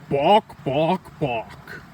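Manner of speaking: hen clucks, bawk bawk, fading off; chicken clucking. Acted.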